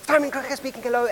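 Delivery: high-pitched rote phone greeting; child answering phone. Retold or imitated. Younger self picks up the family phone, high practised greeting. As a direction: reel off a young child's telephone hello. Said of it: "I would say".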